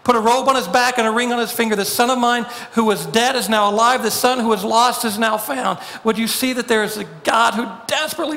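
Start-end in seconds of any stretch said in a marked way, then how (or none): 0.0-5.8 half-hearted retold shout of joy; mild mock shout. Overjoyed father calling to servants, mild mock shout. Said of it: "screams at the top of his lungs".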